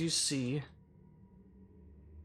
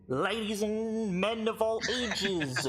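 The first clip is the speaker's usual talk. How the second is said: drawn-out, higher-pitched showman's call; booming arena announcer; 9 semitones higher, 3 dB louder, slower than usual. Acted. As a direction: announce it grandly to a packed arena. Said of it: "a loud, booming voice echo".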